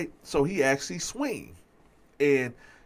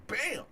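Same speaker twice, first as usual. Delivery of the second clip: imitated punch; 12 semitones higher than usual.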